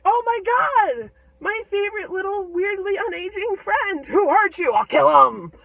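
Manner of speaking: high, loud distraught outcry; horrified, vengeful giant. Acted. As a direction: shout in outrage for a hurt friend. Giant sees kid's wounds.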